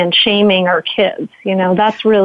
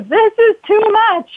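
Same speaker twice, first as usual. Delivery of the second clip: skillful yelling demo; 12 semitones higher than usual. Shown as a demonstration. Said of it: "yelling skillfully".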